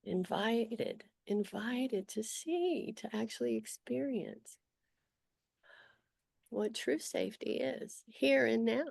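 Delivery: unhurried guiding voice with long pauses; guided meditation. Acted. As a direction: gently lead them through noticing, leaving long silences.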